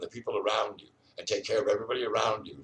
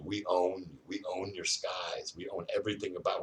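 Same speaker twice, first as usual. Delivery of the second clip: mock oppressor; 5 dB quieter than usual. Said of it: "They're telling you".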